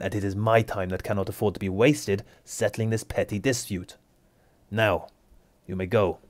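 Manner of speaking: cold authoritative rebuke; stern, darkening. Acted. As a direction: put her in her place. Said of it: "His expression does darken".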